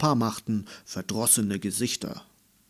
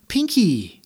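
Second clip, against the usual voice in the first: sudden realisation; 8 semitones higher, 6 dB louder than usual. A narrator's reading. Girl suddenly remembers her backpack.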